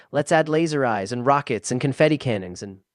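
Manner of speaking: loud, fast, rising excitement; excited shout. A narrator's reading. Josh bouncing with robot ideas, excited shout. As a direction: blurt it all out thrilled. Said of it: "He shouts".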